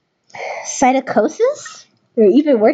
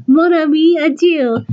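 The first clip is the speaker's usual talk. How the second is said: put-on French accent; 4 semitones higher than usual. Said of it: "He's French New York".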